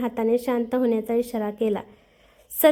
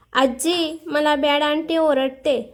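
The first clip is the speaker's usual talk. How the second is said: put-on a child telling tales, drawn out; whiny child; 3 semitones higher, slower than usual. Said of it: "जोरात चिरकत म्हणाली".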